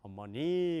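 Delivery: 어머니 landing on the last syllable; final stress. Shown as a demonstration. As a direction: put weight on the 니. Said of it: "세 가지 말밖에 없어요". (끝 음절 강세)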